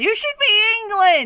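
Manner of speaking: high, loud, pushy voice.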